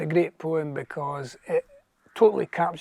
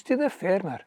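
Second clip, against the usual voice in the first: rhythmic Scots poem reading aloud; lilting recital of Scots verse; 2 semitones higher than usual. Acted. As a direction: recite in measured verse, lingering on line endings.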